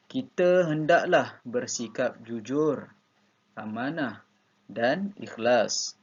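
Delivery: very slow, deliberate reading with a pause at each comma; careful demo reading for the class; model reading aloud. Shown as a demonstration. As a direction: read slowly, letting every comma breathe. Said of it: "baca dengan intonasi yang betul".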